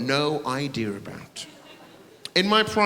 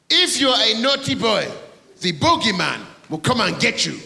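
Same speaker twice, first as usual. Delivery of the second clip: high loud hammed-up bogeyman warning; mock spooky father; spooky dad voice; 7 semitones higher, 5 dB louder than usual. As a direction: scare the kids like a pantomime dad. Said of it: "Obviously not in that voice".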